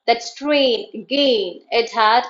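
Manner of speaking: "strain" and "gain" drawn out and stressed; slow verse, leaning on "strain" and "gain"; iambic stress. Shown as a demonstration. Teacher showing students where iambic stress falls, stressed "gain". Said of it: "A, gain is stressed".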